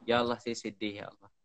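low, subdued plea to God; understated sad pleading, dropping off at the end; sorrowful prayer. Shown as a demonstration. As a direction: repeat it as a weary supplication, fading away. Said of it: "Saya ulang-ulang cakap tu".

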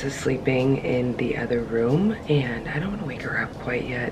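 low, hushed and slowed; soft, low voice so nobody wakes; talking quietly. Real, not acted. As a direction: keep it down for a sleeper next room. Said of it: "I'm talking quiet".

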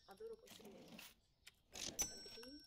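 sarcastic sing-song gushing. Real, not acted. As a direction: gush with fake delight. Ironic praise of customers.

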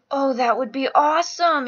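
excited. Real, not acted. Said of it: "I'm, like, freaking out".

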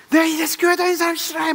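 high, sharp mock scolding; irritated neighbor. Neighbor scolding the churchgoing drunk, high and sharp. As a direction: scold with disgust.

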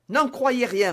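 high, loud protest; urgent denial. A narrator's reading. D'Artagnan protests innocence to the dying man, urgently. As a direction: urge him not to believe it.

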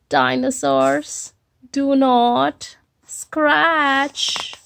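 very slow, each word weighed; slow sign reading; slow emphatic reading. Acted. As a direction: read the rule out solemnly.

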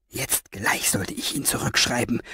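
low, soft grumbling growl. Acted. Fenoglio grumbles to himself about writing Orpheus back, low growl. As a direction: growl it under your breath in irritation. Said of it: "knurrte er".

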